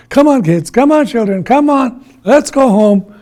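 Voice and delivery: high, loud rounding-up shout; alarmed grandfather calling out; urgent calling. Acted. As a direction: hurry the children away. Grandfather calls children away in alarm.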